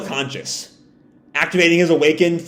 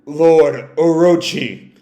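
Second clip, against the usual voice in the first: muttering creature; 4 dB louder, much slower than usual. Retold or imitated. Kazenbo muttering its master's name, slow eerie murmur. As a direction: drag it out like a possessed thing. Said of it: "it just mutters out".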